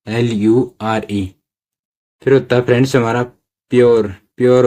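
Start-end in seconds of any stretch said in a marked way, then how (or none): 0.1-1.3 L U R E letter by letter, slow; spelled out slowly. Shown as a demonstration. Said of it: "फिर होता है एल यू आर ई".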